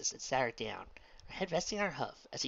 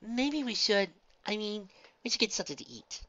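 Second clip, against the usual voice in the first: gently firm; 10 semitones higher, 3 dB louder than usual. A narrator's reading. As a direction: press a shy point in a high voice. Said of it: "Fluttershy said firmly".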